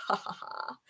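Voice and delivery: soft, voiceless mock laugh; hushed, breath-only ha-ha-ha; crocodile laugh. A narrator's reading. Crocodile laughs at the elephant, a soft mock laugh. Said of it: "laughed out loud".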